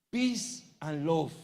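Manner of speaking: drawn-out, mock hippie greeting; seventies peace-and-love hippie. Preacher mocking churchgoers who want no fight, lightly voiced hippie. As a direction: stretch it out like a lightly mocked hippie. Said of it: "soldadito de los setenta".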